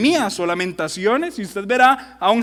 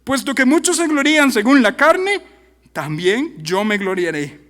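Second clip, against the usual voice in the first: sarcastic; 4 semitones higher, 4 dB louder than usual. Acted. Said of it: "Aquí el sarcasmo llegó a su cúspide".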